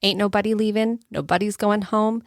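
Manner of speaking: spoken-word recital of lyrics, steady and heartfelt; reciting song lyrics. Shown as a demonstration. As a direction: recite it like a poem to the audience. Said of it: "I'm gonna go to the words from a song".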